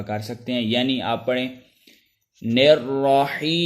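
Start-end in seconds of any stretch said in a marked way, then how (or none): 2.4-3.7 رحیم stretched out long, slow; long madd. Shown as a demonstration. Teacher showing how long madd arid can be. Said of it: "ایک الف سے لے کر پانچ الف تک لمبا".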